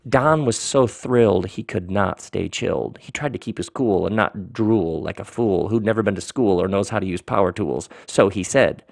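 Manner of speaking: lightly hammed-up rhyming narration; ridiculous story-reading voice. Author describes Don hiding his thrill, ridiculous story-reading voice. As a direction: roll through the rhymes as a storyteller. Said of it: "my best ridiculous story reading voice".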